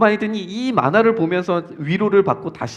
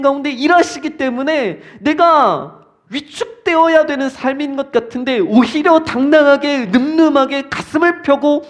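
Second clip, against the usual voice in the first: raised, driving pulpit delivery; impassioned preaching; 6 semitones higher, 4 dB louder than usual. Real, not acted. Urging the congregation to look at God at work, impassioned preaching. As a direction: preach it with mounting conviction.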